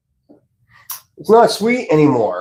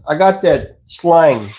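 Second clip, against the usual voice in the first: Southern drawl; slower than usual. Shown as a demonstration. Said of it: "I can real easy talk like this".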